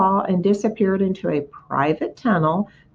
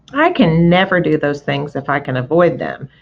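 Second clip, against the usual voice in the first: sour; 2 semitones lower than usual. Acted. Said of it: "replied the rat sourly".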